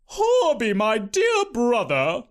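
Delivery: lightly voiced high-pitched aunt, slowed, a touch of a smile; sweet-talking her brother, slow; aunt smiling. A narrator's reading. Aunt greeting her brother at dinner, with a smile. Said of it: "Aunt Crickery said with a smile".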